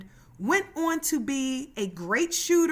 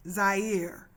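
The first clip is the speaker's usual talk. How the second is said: put-on Zaire said in a low Boston accent, drawn out as "Zai-ear"; imitating Brett Brown's Boston Zaire; 4 semitones lower than usual. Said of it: "how Brett Brown would say his name with his Boston accent".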